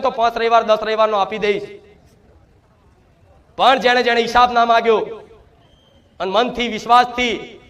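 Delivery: ordinary delivery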